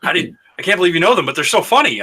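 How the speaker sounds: imitated disbelief. Sister learns her sibling knows the podcasters, imitated disbelief. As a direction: act out her mind being blown. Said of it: "blew her fucking mind".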